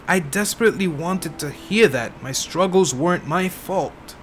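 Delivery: lightly voiced tired old woman; old lady. Old woman confessing to the detective, lightly voiced old lady. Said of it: "I'm trying to do an old lady voice".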